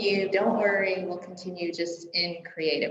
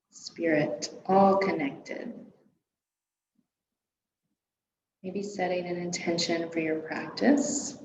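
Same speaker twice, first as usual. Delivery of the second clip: guided meditation. Real, not acted. Yoga teacher settling a class into their breath, calm guided meditation. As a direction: ease them gently into stillness.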